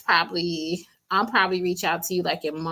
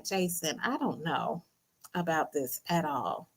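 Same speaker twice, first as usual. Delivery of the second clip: retold doubtful reply; 3 semitones lower, 10 dB quieter than usual. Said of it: "And I'm like".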